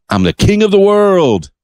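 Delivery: high-pitched mock-triumphant quote; Leo. Host retells Leo's arms-out moment, high mock-exultant cry. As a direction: lift it high, imitating an exultant movie line. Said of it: "and says".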